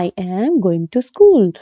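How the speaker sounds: slow, careful teaching read; slow example sentence. Shown as a demonstration. Teacher reading a slow example sentence to the class. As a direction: spell it out slowly for students. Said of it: "जैसे कहते हैं ना".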